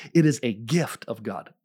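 "gift" given clear emphasis; stress on gift. Real, not acted. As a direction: lean firmly on "gift". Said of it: "I emphasize the word gift".

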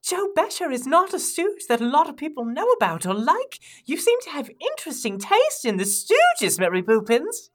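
British intern, scandalized; excitable British intern. Acted. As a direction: play a prim, astonished British lad. Playing Michael, an excitable British intern.

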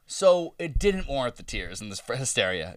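low, soft mock realization; deadpan reaction. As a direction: say it quietly, as if sheepishly conceding.

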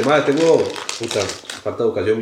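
talking with his mouth full; chewing while talking. Real, not acted. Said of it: "hablando con la boca llena".

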